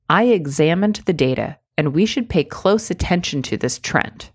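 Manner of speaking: firm, direct statement with no hedges; confident. Shown as a demonstration. Coach demoing the strong version for viewers. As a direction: say it like you mean it. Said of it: "listen to this".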